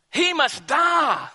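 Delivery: slow, high shouted demand; the mob shouting for his death. Acted. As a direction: roar it like a bloodthirsty mob.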